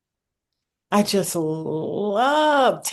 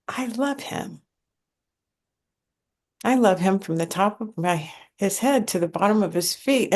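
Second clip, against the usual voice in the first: quietly recalling a tender thought; 5 dB quieter than usual. Retold or imitated. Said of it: "And I thought".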